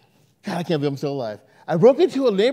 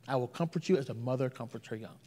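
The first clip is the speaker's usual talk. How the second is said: softer tender repeat; 8 semitones lower, 12 dB quieter than usual. Shown as a demonstration.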